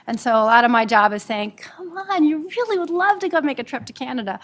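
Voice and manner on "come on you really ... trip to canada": cajole them in a raised, sing-song pitch; coaxing. Acted. Lawyer talking a reluctant employee into a trip, coaxing.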